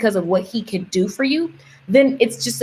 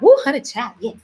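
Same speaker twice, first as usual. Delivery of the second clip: Southern belle aunt; 2 semitones higher than usual. Retold or imitated. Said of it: "She's a Southern Belle".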